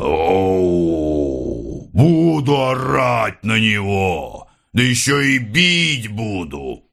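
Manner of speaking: slow, mock growling threat; funny growl. A narrator's reading. Khokhol jokingly growling at the mother, slow mock growl. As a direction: growl it like a playful bear. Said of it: "странно и смешно зарычал".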